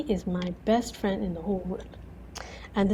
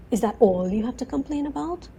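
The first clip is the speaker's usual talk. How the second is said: mock-incredulous question, pitched up; sarcastic; 4 semitones higher than usual. Jesus answering a friend's complaints, playful sarcasm. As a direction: lightly tease a complainer. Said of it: "real sense of humor and sarcasm in him".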